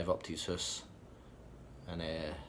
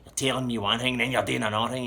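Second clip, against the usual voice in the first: louder, irritated retold complaint; acted telling-off; 4 semitones higher, 6 dB louder than usual. Irked man tells someone they say one thing, do another, loud and annoyed. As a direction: pick them up on it, loudly.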